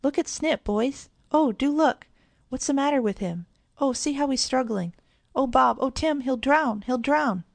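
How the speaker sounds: high and loud, rising panic; calling the boys in alarm; great excitement. A narrator's reading. Girl begs the boys to save her dog, high and frantic. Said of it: "tone suddenly changing to one of great excitement".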